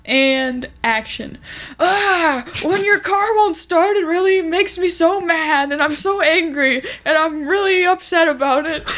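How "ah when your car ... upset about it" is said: mildly raised, slowed fake-angry rant; a hammed-up mild mock tantrum; Hank rant. Co-host asks for a rant as a TV character, half-hearted mock fury.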